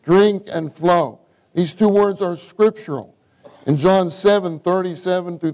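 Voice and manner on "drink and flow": slow, weighted stress on "Drink" and "flow"; emphatic repeat. Real, not acted. Preacher repeating two scriptural words to the saints, slow emphasis on "Drink" and "flow". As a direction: drive home "Drink" and "flow", stretching each word. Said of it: "I want to emphasize these two words".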